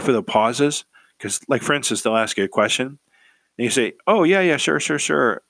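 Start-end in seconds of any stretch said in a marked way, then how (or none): 4.1-5.4 quick, eager yeah yeah sure, pitched higher; rushed eager yes-man; overeager agreeing. Shown as a demonstration. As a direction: gush agreement without waiting for the question. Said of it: "What would be better to say is".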